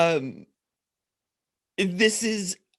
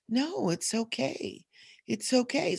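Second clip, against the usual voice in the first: softer and slow, gently reassuring; soothing hug; 4 semitones higher, 6 dB quieter than usual. Retold or imitated. Inner voice calming her frustrated self, softly. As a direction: soothe yourself like a wonderful hug. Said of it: "like this wonderful hug".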